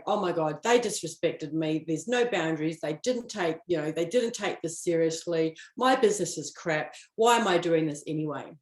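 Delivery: lightly voiced frustrated rant; mock upset rant. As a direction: play the self-pitying spiral, half-hearted. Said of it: "as opposed to going".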